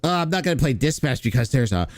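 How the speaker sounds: put-on horrified voice, slowing into a gasp; mock scandalised streamer, dragging out the words; mocking imitation. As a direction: feign shock, ending on a theatrical gasp. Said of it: "by saying".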